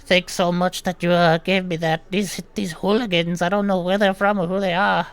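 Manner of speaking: put-on high, loud old man thanking the healer; grateful old gnome. Healed gnome thanking Thalia and scorning hooligans, high and loud. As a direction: thank her and grumble at the hooligans. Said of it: "he goes".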